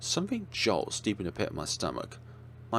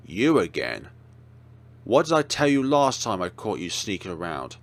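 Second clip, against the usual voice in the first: angry guard; 5 dB louder than usual. Acted. Security guard scolds the kids.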